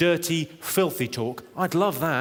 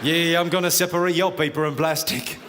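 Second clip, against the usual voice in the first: mock sexy voice. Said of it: "That's my sexy voice".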